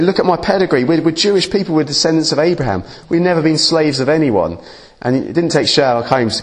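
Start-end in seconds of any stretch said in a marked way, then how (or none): 0.0-4.6 higher, lightly mocking proud protest; indignant boast. Preacher mimicking the offended Jews, mock indignant. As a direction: play the offended crowd bragging of their pedigree, higher. Acted indignant crowd quote.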